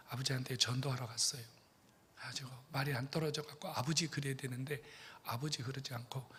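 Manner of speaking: ordinary talk, nothing marked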